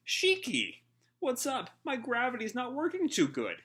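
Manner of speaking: very high, whiny cartoon panic; a confused fighter whose power fails; high squeaky flustered complaint; panicked goofy voice. Shiki panics, gravity failing.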